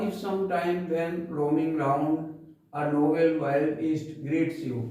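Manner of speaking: very slow, measured poem reading; poem recitation. Shown as a demonstration. Teacher reciting the poem for class ten, slow recitation. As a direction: recite each phrase slowly with pauses. Rereads verse before explaining.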